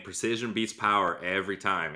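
put-on a quick half-hearted Irish accent quoting the fighter; Conor McGregor Irish accent. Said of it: "Hopefully that Irish accent wasn't too bad".

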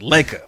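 "Laker" stressed, ending in an open "ah"; imitated Lakers accent. Caller repeating the host's way of saying Lakers, imitated accent. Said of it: "has an emphasis on the Laker".

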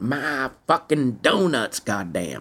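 slow whisper of the curse; whispered mock grumble. Van Zant whispering about his eaten donuts. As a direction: breathe it out like a grumble in the booth. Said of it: "and he went".

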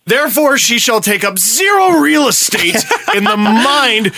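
orate it like a pompous tribute; mock grandiose.

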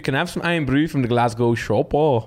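attempted Glasgow Scottish accent; shaky-attempt mock Scottish. Shown as a demonstration. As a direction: have a go at a lilting Scottish accent. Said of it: "Do a Scottish accent".

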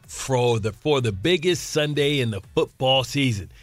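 measured sponsor read; scripted radio commercial delivery. Acted. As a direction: read the betting ad copy deliberately. Reads the sponsor ad.

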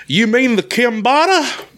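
high, slow, drawn-out question; slow high-pitched mock confusion; quoting the server. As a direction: imitate a clueless worker, rising high. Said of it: "she says, and I quote".

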